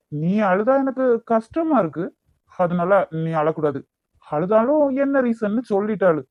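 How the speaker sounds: heated, exasperated demands; angry. Acted. Lover demands to know why the crying won't stop, angry. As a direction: press them for an answer, temper rising. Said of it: "இப்ப எதுக்கு இப்படி கோவப்படுறீங்க?".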